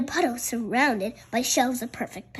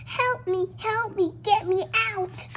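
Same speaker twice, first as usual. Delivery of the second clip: pleading for help; 7 semitones higher than usual. Acted. Trapped creature begging.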